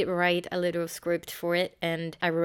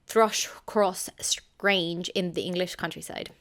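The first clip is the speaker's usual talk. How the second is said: put-on British accent on the place name; lightly affected British pronunciation. Shown as a demonstration. Reviewer naming the novel's house for effect, British accent. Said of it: "say it with a British accent".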